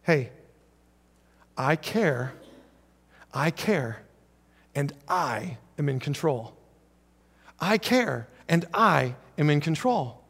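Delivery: soft, slow, steady comfort; softly reassuring, slow quit freaking out; reassuring Jesus. Retold or imitated. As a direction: settle a frightened friend gently. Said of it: "He says".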